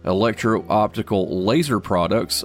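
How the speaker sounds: upbeat business news read; brisk announcer reading stock picks; radio market report. Acted.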